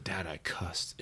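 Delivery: put-on soft, hushed kid owning up; guilty whisper confession. Ben confessing to his dad, hushed. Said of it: "I said".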